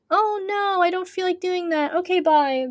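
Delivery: high-pitched, make-believe quitter; mock reluctance. Streamer imitating giving up on pressure, mock reluctance. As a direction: pretend to back out, pitched high and sliding down. Mimics someone giving up easily.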